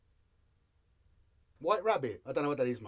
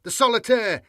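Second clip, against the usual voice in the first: measured, weighty fantasy audiobook read; dramatic story narration; 3 dB louder, slower than usual. Acted. Streamer reading a Warhammer battle chapter to chat, dramatic narration. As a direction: tell the battle like an epic audiobook, lingering on the violence.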